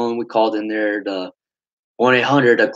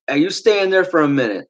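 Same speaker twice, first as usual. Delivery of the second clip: retold stern order; 5 semitones higher than usual. Retold order from angry leader.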